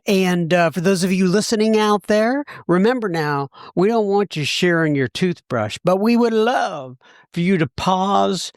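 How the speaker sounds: upbeat announcer read closing the episode; host signs off the show, wrapping up, in bright announcer mode; podcast host mode. Acted. Host thanking guest, then addressing listeners, in announcer mode. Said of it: "I get into this mode".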